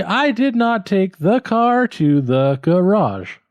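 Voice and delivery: "I" stressed up high. Shown as a demonstration. Student tries stress on the subject. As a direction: start with a strong "I". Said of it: "or should it be".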